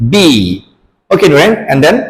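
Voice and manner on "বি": "বি" with a firm lip closure; lips joined. Shown as a demonstration. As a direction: press lips, pop out "বি". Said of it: "লিপসটাকে join করতে হবে".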